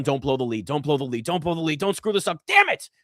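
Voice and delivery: mounting mock panic, ending in a yelp on damn it; Rory's inner panic. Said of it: "it's Rory going".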